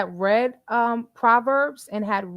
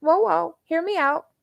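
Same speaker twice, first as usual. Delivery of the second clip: calming friend; 5 semitones higher than usual. Retold or imitated. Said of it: "But they're like".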